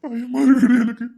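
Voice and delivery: slow, tearful fear; slow fearful weeping to his wife; fearful crying. Acted. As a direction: admit the fear through sobs. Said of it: "ஏன் அழுதுட்டு இருக்கீங்க?".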